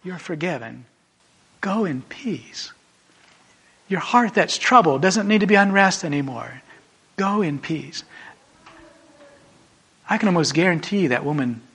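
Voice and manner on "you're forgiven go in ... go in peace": gentle forgiveness. Acted. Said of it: "to hear those words".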